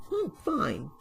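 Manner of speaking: high-pitched cartoon engine voice; little engine Percy, evasive. A narrator's reading. Percy the engine answering his worried crew, high and evasive. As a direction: squeak out a brief brush-off.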